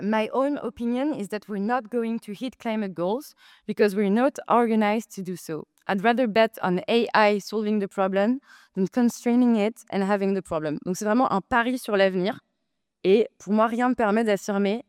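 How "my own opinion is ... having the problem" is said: put-on French-accented English quote. Debater quoting an ex-Google CEO, in French-accented English. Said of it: "On va avoir cet accent anglais".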